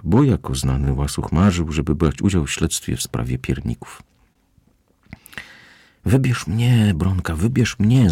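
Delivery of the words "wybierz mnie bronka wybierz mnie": higher pleading squeak; quiet squeak. Acted. Greedy cat begs Bronka to pick him, squeaking softly. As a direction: beg in a small squeaky voice. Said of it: "zapiszczał cicho".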